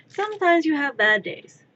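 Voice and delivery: mock pep talk. Mock-motivational speech to herself.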